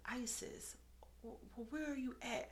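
soft, stumbling worried question; retold hushed concern. Best friend phoning her as she cries, hushed concern.

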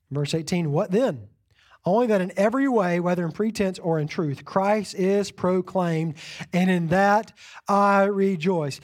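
measured scripture reading. Acted. Pastor reading Philippians to the congregation, measured. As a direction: read Philippians to the church.

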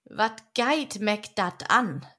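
slow Low German farmer's shrug. Acted. Farmer shrugging off the boys' end, slow Low German. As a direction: let the Low German words drawl out slowly, unbothered. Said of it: "der brave Bauersmann dachte".

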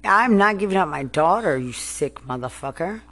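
real furious yell over her daughter; furious shout. Real, not acted. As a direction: shout it, refusing to give her up. Angry rant at officials.

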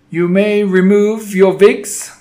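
slow, loud, high harsh witch snarl, wigs said like vigs; accented witch snarling at the crowd; snarled witch order. Acted. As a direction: snarl it with a foreign accent, rolling the R. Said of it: "snarled the Grand High Witch".

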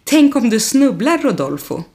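lightly voiced high teasing. Carol teasing Rodolfo about stumbling, lightly mocking. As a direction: poke fun, singsong and mocking. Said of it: "Carol säger retsamt".

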